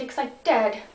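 slow Welsh-tinged echo; drawn-out word in a Welsh accent; Welsh-sounding. Shown as a demonstration. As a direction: repeat it with a Welsh lilt. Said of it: "I sounded really Welsh then".

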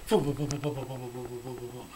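rapid run of booms fading away; imitated spinning noise. Shown as a demonstration. Man showing the sheet going round the circuit, imitated whirr.

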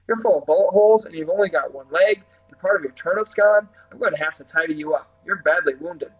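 a hint of exasperated young helper; lively fussing, lightly played; lightly voiced concerned Jack. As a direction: scold your battered master, lively and mildly acted.

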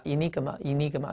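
enigma with -NIG- stressed; stress on second syllable. Shown as a demonstration. Teacher has students read along, enigma stressed on second syllable. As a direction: lean on NIG in enigma, twice. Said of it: "注意在第二音节啊".

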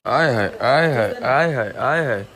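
a lingering, delighted aay haay; slow relishing exclamation; slow drawn-out aay haay. Real, not acted. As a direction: stretch each aay haay out, savoring it. Drawn-out delight over hot drink.

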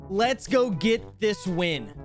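slow, measured game announcer read; deliberate announcer-style read; announcer line. Shown as a demonstration. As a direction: deliver it slowly, word by word. Reads a sample announcer line.

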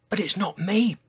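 high little protest. A narrator's reading. Tiny-voiced giant denies the blame, protesting. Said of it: "protested Sizo".

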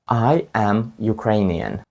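"I am Ukrainian" spoken slowly, word by word; slow teaching model. Shown as a demonstration. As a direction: spell it out slowly for learners. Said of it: "Пам'ятаєте?".

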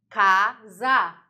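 "casa" split loudly into ca-sa; slow, loud ca... sa; syllable by syllable. Shown as a demonstration. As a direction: say "casa" as two punched beats, ca, sa. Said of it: "quando eu separo a sílaba".

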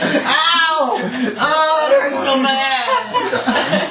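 high, slow wailing sob; hammed-up crying. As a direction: whine it like a wounded crybaby. GM voices wounded NPC crying.

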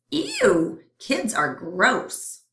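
squeaky disgusted ew; disgusted germ. Acted. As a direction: recoil in disgust. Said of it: "the other germ says".

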